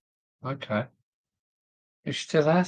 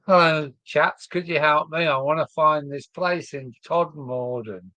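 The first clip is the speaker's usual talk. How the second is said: put-on southern accent; 3 semitones higher than usual. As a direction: put on your southern voice to ask for directions. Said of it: "had my southern voice".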